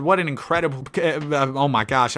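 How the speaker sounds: tripping over the words; stumbling stuttered start; stuttering. Real, not acted. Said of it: "I'm stuttering".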